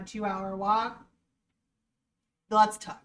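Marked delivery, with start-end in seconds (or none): 2.5-3.0 playful invite. Shown as a demonstration.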